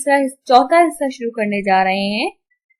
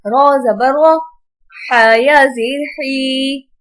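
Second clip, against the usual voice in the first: slow, measured recitation with long-held vowels; Quran spelling drill; 2 semitones higher, much slower than usual. Shown as a demonstration. Teacher spells out Arabic words for pupils, drawn-out recitation. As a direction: chant each syllable out for pupils.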